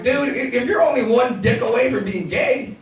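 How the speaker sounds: shouted retort. Retold or imitated. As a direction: shout it at Bob. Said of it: "I was like".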